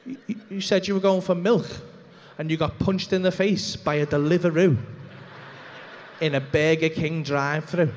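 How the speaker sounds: slow, deliberate scolding with long pauses; disgusted wife. Retold or imitated. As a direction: imitate a wife spelling out her disbelief. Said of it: "my wife's gonna see that and go".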